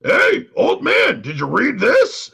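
high, slow mocking voice; lightly voiced taunting fan; mock pestering fan. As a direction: mimic the nagging fans. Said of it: "this shit gets brought".

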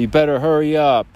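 hammed-up shower enforcer calling out orders; bathroom bully. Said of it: "You have the bathroom bully".

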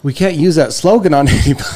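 a laugh breaking into the last words. Real, not acted. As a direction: giggle through the punchline. Joking about the slogan.

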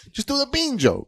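gruff Jersey dad. Acted. Tough Jersey dad rant.

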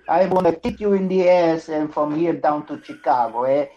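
playful Italian mobster threat; comic Italian tough guy; mock Italian accent. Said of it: "Are you Italian now?".

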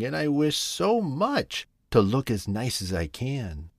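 a small hopeful frog coaxing the flower ladies; a hint of a shy frog asking a favour; little frog's voice. Frog's long begging speech.

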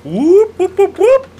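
high, loud party whoop; frat bro whooping. Acted. Hype call before chugging.

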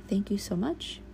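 whispered thanks; soft whisper. Retold or imitated. Thanking the cut connections, softly whispered. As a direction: whisper a gentle goodbye. Cord cutting farewell words.

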